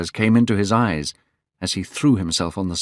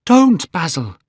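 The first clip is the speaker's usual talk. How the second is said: loud, high desperate shout; crying out; 9 semitones higher, 7 dB louder than usual. A narrator's reading. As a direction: shout to stop him. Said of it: "he cried".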